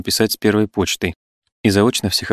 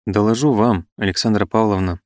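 slow, measured. Acted. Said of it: "медленно промолвил Пегасов".

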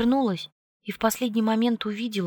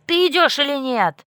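higher, louder impatient demand; impatient angry shout; 7 semitones higher, 7 dB louder than usual. A narrator's reading. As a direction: demand it furiously. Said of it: "кипятился Чарли".

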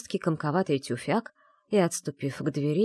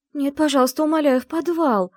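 much higher, louder begging cry; desperate exclamation; 10 semitones higher, 6 dB louder than usual. A narrator's reading. Heroine begs the servant to take her downstairs, crying out. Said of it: "воскликнула я".

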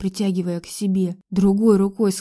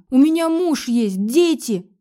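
desperate outburst; 4 semitones higher, 4 dB louder than usual. Acted. Desperate tearful outburst to Max.

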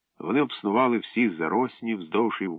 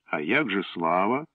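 teasing; 5 semitones higher than usual. Acted. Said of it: "усміхнувся Славко".

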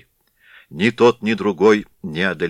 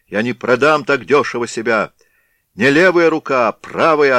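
defiant cry; 2 semitones higher, 3 dB louder than usual. Acted. Wounded Danilo defiant.

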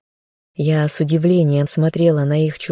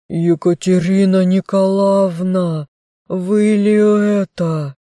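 slow, raised, astonished question; stunned recognition; 3 semitones higher, 3 dB louder, slower than usual. A narrator's reading. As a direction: gasp it out in disbelief. Stunned peasant recognizes the mistress. (потрясённо, не веря глазам)

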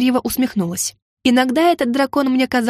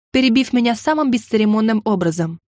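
plain reading voice

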